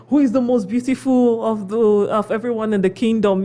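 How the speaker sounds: lightly voiced wicked queen asking the mirror; mock wicked queen. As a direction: ask it like a vain cartoon queen, lightly. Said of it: "always screaming".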